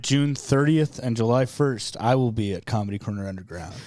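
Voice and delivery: pointed plug. Pretend. Rival comic plugging shows against Grant's, pointedly deliberate. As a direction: drop the voice for a deliberate announcement. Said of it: "You don't need to say it like that".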